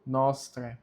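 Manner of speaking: "nostre" ending in open "tré"; silent A. Shown as a demonstration. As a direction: drop the A at the end of "nostre". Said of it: "ele fica mudo". ("nostre" com o A mudo, "nóstré")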